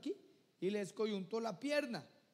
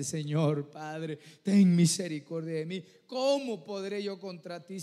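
tearful pleading prayer; 10 dB louder than usual. Acted. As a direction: plead with God through tears, humbled. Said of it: "estar llorando y humillado delante".

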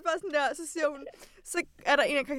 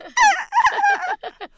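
very high, loud laughing; shrieky laugh instead of an answer; re-enacted laughing fit; 8 dB louder than usual. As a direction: act out helpless, high-pitched laughter. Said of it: "så jeg er sådan".

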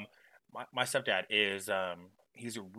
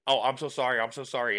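louder, hurried mock apology; mock panicked apology; 3 semitones higher, 6 dB louder than usual. Frenchman backing down to the angry stepdad, mock panicked. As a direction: imitate someone backing down fast. Retold frightened man apologizing.

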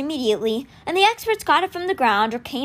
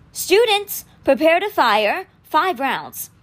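high, loud call on students, slower prepare to fire; commanding order; 5 semitones higher, 3 dB louder, much slower than usual. A narrator's reading. Statue teacher ordering the students to fire, loud command. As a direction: bark the drill command across the field.

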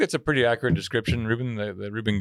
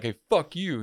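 raised-pitch mock comeback; retold anger; 5 semitones higher, slower than usual. Yelling back at the laughing heckler, mock anger. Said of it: "So I get pissed".

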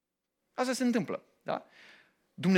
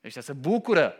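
wistful God; 5 semitones lower, 3 dB louder, slower than usual. Acted. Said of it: "Și Dumnezeu spune".

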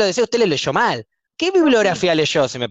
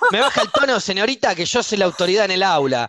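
stern authority; 3 semitones higher than usual. Acted. Professor claiming authority in the classroom, indignant scolding. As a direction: pull rank on a cheeky student. Professor pulls rank on student.

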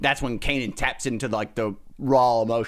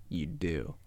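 hushed wise line; 9 semitones lower, 10 dB quieter than usual. Shown as a demonstration. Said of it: "You don't try".

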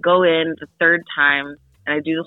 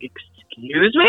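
slow disbelief; slower than usual. Retold or imitated. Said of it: "I was like".

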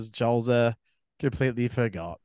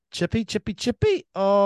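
cooing; 7 semitones higher, 3 dB louder than usual. Real, not acted. Cooing over a surf clip.

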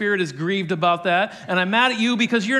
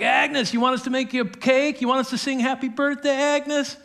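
teasing; 6 semitones higher than usual. Retold or imitated. Women teasing Agnes in story.

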